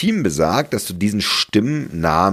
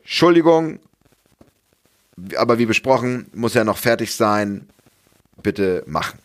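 mock boss quote; 3 semitones higher than usual. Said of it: "und sagt".

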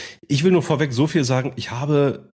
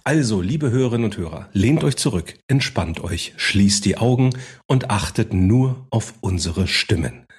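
smooth, cozy radio presenter; radio host voice. Acted. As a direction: welcome listeners like a cozy DJ. Mock radio host intro.

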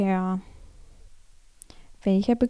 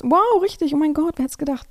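excited; 5 semitones higher, 4 dB louder than usual. Real, not acted. Correct answer revealed.

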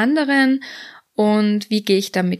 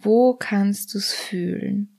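slow hushed whisper; gentle whispered prompt; slower than usual. Acted. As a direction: whisper the question slowly. Whispered body check question.

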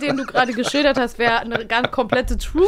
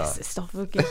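laughing disbelief; 3 dB quieter than usual. Real, not acted. Laughs over name mix-up.

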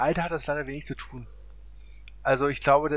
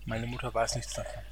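lower, disguised voice to stay anonymous; disguised deep voice; 4 semitones lower, 6 dB louder than usual. Pretend. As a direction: hide who you are with a put-on low voice. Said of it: "Ich spreche mit verstellter Stimme". (verstellte tiefe Stimme)

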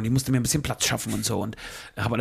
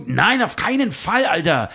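slow, higher, drawn-out denial; firm denial; 4 semitones higher, slower than usual. Retold or imitated. Speaker denying to his friend he took the wallet, slow insistence. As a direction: deny it flatly, stretching each word. Own denial in retold quarrel.

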